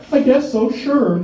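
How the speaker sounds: squeaky, high and loud; high reluctant agreement. Retold or imitated. Nervous gladiator agreeing to the deal, high-pitched. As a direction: shrug it off in a squeak.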